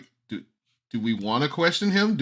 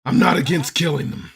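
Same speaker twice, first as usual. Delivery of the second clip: deadpan threat; 4 semitones higher, 4 dB louder than usual. Acted. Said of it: "Mercenary's gonna turn to the party".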